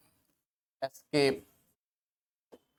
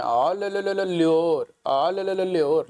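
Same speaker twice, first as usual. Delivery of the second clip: calling a street dog to a biscuit, chirpy; sing-song ले, ले, ले to lure a dog; coaxing a dog; 3 semitones higher, 4 dB louder than usual. Retold or imitated. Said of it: "कुत्तों को biscuit ऐसे खिलाते हैं".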